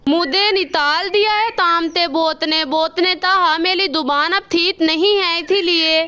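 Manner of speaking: lisped, "अथा दो तल" for "अच्छा तो सर"; lisping crow. Acted. Kalu crow to the doctor, lisping after the surgery. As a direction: say "थाता" with a childlike lisp. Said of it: "आपकी आवाज़ बिल्कुल भी अच्छी नहीं लग रही।".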